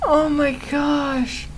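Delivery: ordinary delivery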